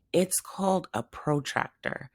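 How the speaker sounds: annoyed cat grumbling under his breath. Acted. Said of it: "Hector grumbled".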